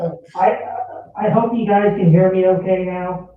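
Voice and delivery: muffled, echoing line; like calling from a well. Real, not acted. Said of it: "it sounds like you're at the bottom of a well".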